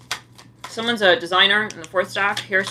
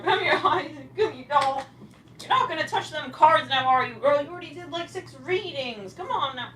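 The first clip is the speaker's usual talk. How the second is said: pet talk; 8 semitones higher than usual. Acted. Coaxing her pet Isaac.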